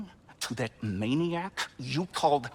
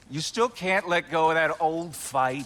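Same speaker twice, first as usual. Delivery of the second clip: scornful retort; 6 dB louder than usual. Acted. Brother snaps back in argument.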